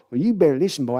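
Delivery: a hint of mock old owner growl; Jerry Jones impression. Jerry warns his son, lightly voiced mock threat. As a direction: warn the boy, lightly voiced. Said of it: "Jerry and Sons impression".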